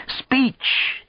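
very high, strained heckling call; mock-accented yell. A narrator's reading. Old friend laughing at him yells for a speech, high comic yell. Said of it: "Arkady yelled".

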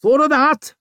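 attitude. A narrator's reading. Sly man taunting Vic.

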